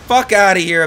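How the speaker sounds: mild yell. Real, not acted. Yelling at enemy in game.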